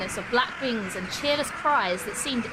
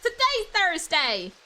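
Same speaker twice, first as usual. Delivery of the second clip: surprised; 8 semitones higher, 4 dB louder, slower than usual. Real, not acted. Repeats the realization.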